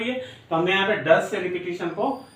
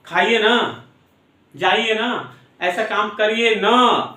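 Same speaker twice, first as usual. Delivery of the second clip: coaxing ना; 2 semitones higher, 3 dB louder, slower than usual. Shown as a demonstration. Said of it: "जैसे हम बोलते हैं ना".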